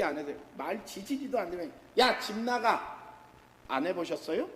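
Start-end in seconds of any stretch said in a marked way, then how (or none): 2.0-3.0 높고 느리게 내뱉는 "집 나가"; 자식 내쫓듯 버럭. Retold or imitated. 자식에게 소리치는 부모. (자식에게 집 나가라고 소리치는 부모, 흉내)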